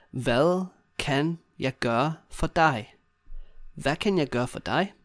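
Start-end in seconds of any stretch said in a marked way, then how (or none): 0.1-2.9 slow, separated words. Shown as a demonstration. Teacher modelling the assistant's question to learners, word by word. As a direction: give each word its own space.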